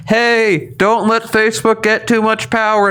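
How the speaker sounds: mock yelling. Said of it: "like, yelling".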